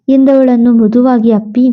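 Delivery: usual speaking voice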